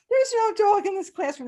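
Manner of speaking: put-on high, loud sing-song children's chorus; kids chorusing. Kids echoing teacher to the principal, chanting. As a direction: chant it back like a class of kids.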